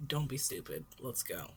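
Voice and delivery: a tired hero cutting the talk short; gruff Eraserhead. Acted. Eraserhead's curt reply.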